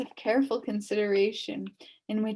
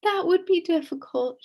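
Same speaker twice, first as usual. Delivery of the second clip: witch, doubtful; 9 semitones higher than usual. A narrator's reading. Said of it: "she replied".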